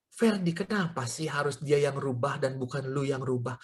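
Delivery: low, soft, hushed question; quiet, low divine prompting; inner voice. Retold or imitated. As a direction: speak gently as a voice within the heart. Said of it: "Roh Kudus mulai bicara dalam hati saya".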